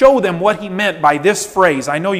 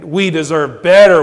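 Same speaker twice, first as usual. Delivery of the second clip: entitled complaint; 7 dB louder than usual. Acted. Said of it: "we think".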